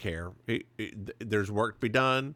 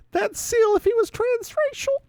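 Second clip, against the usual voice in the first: very high, loud, laughing words; barely getting it out for laughing; laughing squeal; 7 dB louder than usual. Real, not acted. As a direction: squeal it out through real laughter. Cracking up at own impression of a singer.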